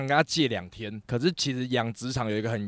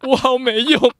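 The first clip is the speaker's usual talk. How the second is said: self-pitying whine; 10 semitones higher, 8 dB louder, slower than usual. Retold or imitated. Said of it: "打给我妈".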